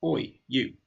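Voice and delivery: a light telling-off "Oi, you"; a hint of a scolding call; calling out naughty child. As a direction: mildly catch a naughty kid's attention. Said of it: "Like you see someone naughty you need to speak to".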